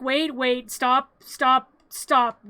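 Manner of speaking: loud, punched repeated stops; hammed-up urgent calling out; mock urgent plea. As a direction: imitate someone calling a halt. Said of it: "And Sally's like".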